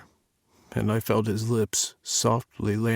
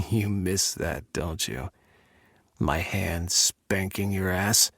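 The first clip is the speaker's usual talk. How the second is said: soft teasing; 3 semitones lower, 5 dB quieter, slower than usual. Acted. Dominant lover teasing.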